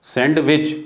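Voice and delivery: सैंडविच with the d pronounced, "sand-wich"; D wrongly sounded. Shown as a demonstration. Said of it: "अलग-अलग दो sound बोल देते हैं". (सैंडविच में डी का गलत उच्चारण)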